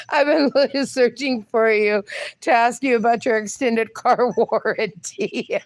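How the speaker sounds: breaking up mid-sentence, slowing on the last words; fighting off laughter while reading; laughing through it. Real, not acted. Host finishing the car warranty joke, cracking up. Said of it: "I didn't catch it until I was already reading it".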